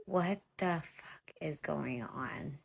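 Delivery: slow whispered disbelief; retold shock in a drawn-out whisper; stunned whisper.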